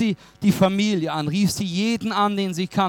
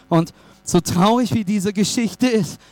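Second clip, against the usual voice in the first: building, higher-pitched gospel proclamation; impassioned preaching; 6 semitones higher than usual. Real, not acted. Preacher likening Christ's death to the bouquets, impassioned. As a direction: press the message home with rising conviction.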